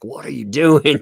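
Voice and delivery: exasperated mods. Retold or imitated. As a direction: imitate fed-up moderators calling out. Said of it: "the mods are probably like".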